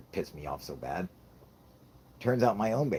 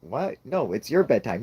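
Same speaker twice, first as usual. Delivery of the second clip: higher, baffled objection; protesting dad; 5 semitones higher, 3 dB louder than usual. Retold or imitated. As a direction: argue back with a bossy kid. Dad protests screamed orders.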